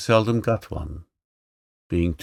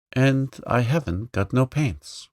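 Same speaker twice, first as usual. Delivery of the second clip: wrong grammar; 5 semitones higher than usual. Acted. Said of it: "You should say, 'Haven't any paints.'".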